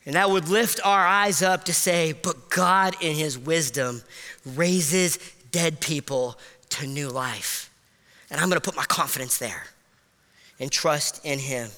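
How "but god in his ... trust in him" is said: tender. Acted. Quiet confession of faith.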